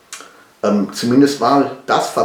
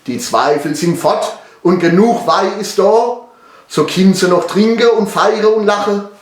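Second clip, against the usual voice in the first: measured verse narration in Palatinate German; dialect ballad recital; 5 semitones higher, 3 dB louder than usual. Acted. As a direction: recite the rhymes, building to a happy ending. (Balladenvortrag auf Pfälzisch)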